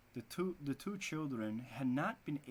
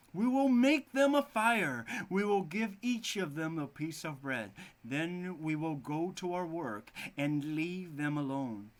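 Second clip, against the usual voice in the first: scheming wife; 3 semitones higher, 5 dB louder than usual. Acted. Stepmother plotting in fairy tale.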